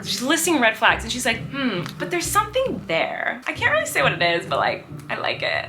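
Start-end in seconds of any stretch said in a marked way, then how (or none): 1.5-5.7 mock wavering Belle. Belle weighing the Beast's red flags, mock wavering.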